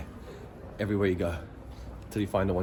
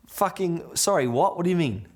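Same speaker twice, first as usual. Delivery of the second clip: high-pitched, incredulous retort; baffled disbelief; 8 semitones higher than usual. Retold or imitated. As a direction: act out being completely thrown. Baffled reply to being told try.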